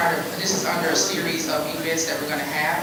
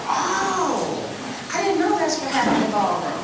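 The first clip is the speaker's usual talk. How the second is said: surprised realization; 10 semitones higher, 4 dB quieter, slower than usual. Retold or imitated. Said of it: "they were like".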